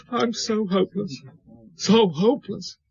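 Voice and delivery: sinking into his own misery; self-pitying despair. Acted. Drunk man wallowing in self-pity.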